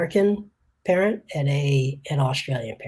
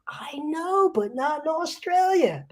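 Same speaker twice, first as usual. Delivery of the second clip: laughing; 12 semitones higher, slower than usual. Retold or imitated. Punchline retold again, laughing.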